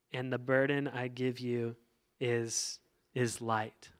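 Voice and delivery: slow, measured reading of the verse; scripture reading. Acted. Pastor reading Matthew's verse to the congregation, slow and measured. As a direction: read the passage to the congregation, unhurried and steady. Reads the Matthew passage aloud.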